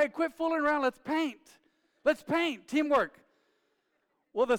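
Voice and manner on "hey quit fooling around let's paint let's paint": high, loud impatient dad call; imitating dad's yell. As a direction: hurry the kids up like a strict dad. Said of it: "Dad's like".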